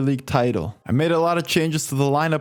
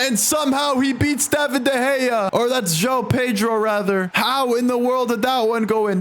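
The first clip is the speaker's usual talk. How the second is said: stunned disbelief; 5 semitones higher than usual. Real, not acted. Keeper beaten by weak shot.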